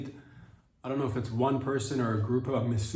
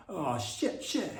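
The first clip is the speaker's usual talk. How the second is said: mock surprise; 6 semitones higher, much slower than usual. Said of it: "That's my impression of Gavin Newsom".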